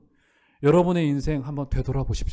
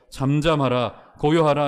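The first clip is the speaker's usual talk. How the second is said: commanding rebuke; slower than usual. Acted. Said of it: "주님께서 선포하십니다".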